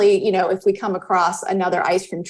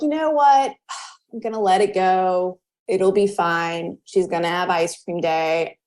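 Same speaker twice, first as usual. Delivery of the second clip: resigned letting go. Retold or imitated. Resigned self-talk with sigh.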